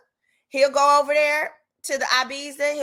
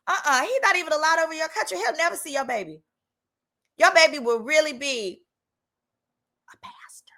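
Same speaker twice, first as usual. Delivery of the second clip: Jesus's warning; 5 semitones higher than usual. Retold or imitated. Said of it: "Jesus knew".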